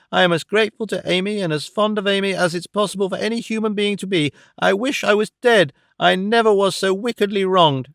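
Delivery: put-on young woman hurt and near tears; a touch of sobbing indignation; tearful outburst. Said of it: "sobbing and weeping".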